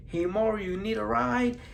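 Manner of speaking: put-on high, soft New York accent. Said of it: "Probably in New York accent or something".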